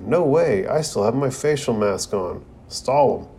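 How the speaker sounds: a light retold yell from offstage, high at the start; mock yell. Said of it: "Sakura yells in".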